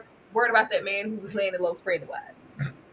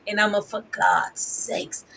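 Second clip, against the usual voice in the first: mock Evelyn; slower than usual. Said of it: "as Mother Evelyn".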